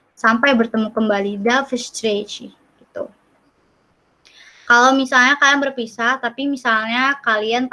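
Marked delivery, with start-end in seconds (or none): 1.4-2.5 Da встречи said slowly, "da fstrechi"; slow Russian demo. Shown as a demonstration. Teacher teaches see you again in Russian, slowly. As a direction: model Da встречи clearly and slowly. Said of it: "kamu bilangnya".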